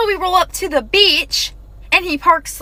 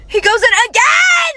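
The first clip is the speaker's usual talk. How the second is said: higher and louder, half crying out in disbelief; exasperated outcry; 7 semitones higher, 4 dB louder than usual. Real, not acted. Recounting the date to viewers, an exasperated outcry. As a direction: blurt it out, scandalised he's trying again. Outraged he tries kissing again.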